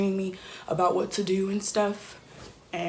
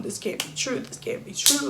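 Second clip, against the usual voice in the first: higher-pitched, understated incredulity; retold disbelief; 4 semitones higher than usual. Daughter thinking to herself after losing her mom, retold disbelief. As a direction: repeat it as remembered denial, pitch climbing.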